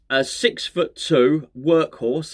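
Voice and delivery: slow quoting. Shown as a demonstration. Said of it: "and I quote".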